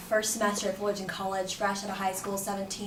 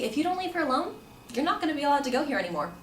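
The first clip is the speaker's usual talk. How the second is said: higher, quickening ultimatum; retold firm threat, rushing to the end; stern warning; 5 semitones higher, faster than usual. Security guard to the stalker, sternly warning.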